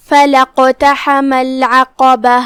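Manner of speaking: slow chanted Quran recitation, drawn out; tajweed recitation. Shown as a demonstration. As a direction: recite it the way a Quran teacher models it. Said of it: "ہمزت وصل ہے". (تجوید کے ساتھ تلاوت)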